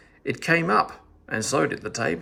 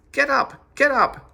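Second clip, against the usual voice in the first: much higher, louder shout; yelling; 12 semitones higher, 6 dB louder than usual. A narrator's reading. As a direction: shout him off the butter. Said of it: "yelled at him all the more".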